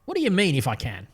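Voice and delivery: a stern, reproving question; reading the line as a stern rebuke. Retold or imitated. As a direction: scold him gently for his doubt. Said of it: "it reads like a stern rebuke".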